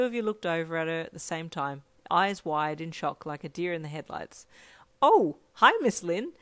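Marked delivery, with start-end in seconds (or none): 5.0-6.3 high, bright-pitched cheery greeting; happy. A narrator's reading. Caught by friend's mum, uncharacteristically happy greeting. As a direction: greet loudly and over-cheerfully. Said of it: "Ijiro said happily".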